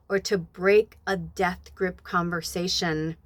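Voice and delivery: measured read-aloud with long pauses. Acted. Reader wraps up with the coyote medicine text, measured reading aloud. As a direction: read the passage out slowly, phrase by phrase.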